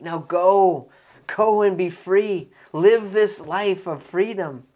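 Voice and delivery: loud, lifted exhortation; rousing send-off. Acted. Jesus releasing the healed woman, rousing and loud. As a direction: send them out with a ringing voice.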